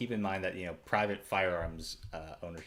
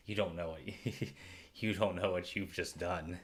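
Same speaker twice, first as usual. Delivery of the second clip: gruff voice. Acted. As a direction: growl the threat roughly. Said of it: "like, a very gruff voice".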